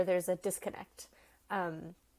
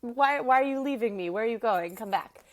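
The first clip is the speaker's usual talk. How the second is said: raised voice, lightly acted plea; Hermia calling back; 3 semitones higher, 6 dB louder than usual. Hermia to her best friend who is leaving, lightly calling her back. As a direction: call a friend back as she leaves. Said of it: "Hermia calls her back".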